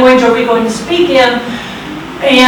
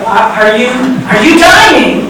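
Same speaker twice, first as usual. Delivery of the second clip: exasperated; slower than usual. Retold or imitated. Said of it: "he sounded like he was starting to get kind of exasperated".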